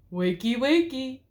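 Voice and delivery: slow teasing snarl. A narrator's reading. The wolf waking Sleeping Beauty with a snarl. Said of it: "he snarled".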